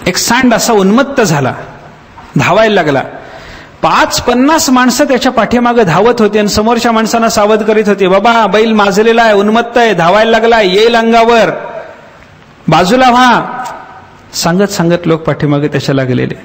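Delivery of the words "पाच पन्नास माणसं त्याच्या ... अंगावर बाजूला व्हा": raised, urgent warning to clear the path; warning shout. Retold or imitated. Crowd running behind bull warns people ahead, raised urgent shout. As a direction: call out to people ahead to step aside.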